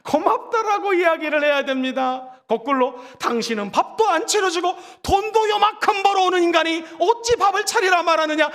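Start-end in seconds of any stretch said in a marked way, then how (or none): 3.2-8.5 mock scolding spouse. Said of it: "이러면 안 된다라는 것입니다".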